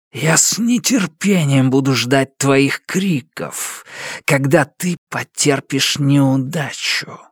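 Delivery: slow hissing shadow voice; creeping nightmare whisper. Acted. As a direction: gloat slowly like a dark spirit. Shadow leaves with a threat.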